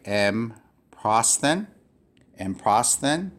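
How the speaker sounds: "M prosthen" slowly, EM apart from PROSTHEN; divided syllables. Shown as a demonstration. Teacher divides it this way, slow separated syllables. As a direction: split after M in "M prosthen", rising at the end. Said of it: "I would divide it this way".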